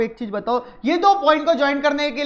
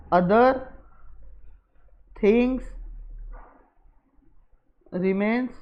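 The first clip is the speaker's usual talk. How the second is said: slow, one word at a time; long pauses between words; writing-along pace; 3 dB quieter, much slower than usual. Real, not acted. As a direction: say each word as you write it. Writing out the words while saying.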